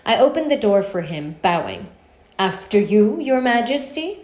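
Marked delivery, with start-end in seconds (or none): 2.4-4.2 mock-grand sarcasm; bow and lay the sarcasm on thick; a touch of mocking courtesy; sarcastic. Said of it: "my voice leaking with sarcasm".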